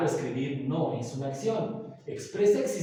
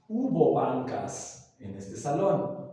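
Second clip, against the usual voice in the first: slow example; 3 semitones lower, slower than usual. Shown as a demonstration. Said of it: "podemos decir".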